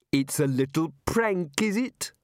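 high, mannered housekeeper voice. Acted. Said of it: "the housekeeper went on".

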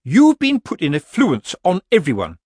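high, loud gull-like outrage; shrill accusation. Acted. Missus Earwig accuses Granny before the witches, shrill. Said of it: "was as shrill as a gull's".

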